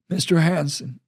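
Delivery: calm commanding officer; commander Hoyt. Acted. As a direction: greet him with calm authority.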